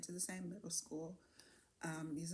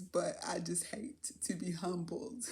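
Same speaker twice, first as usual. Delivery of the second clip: whispered aside; 4 dB louder, slower than usual. Real, not acted. Admitting to viewers she hates being humbled, whispered. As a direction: drop to a whisper, a touch slower. Embarrassed aside after the car.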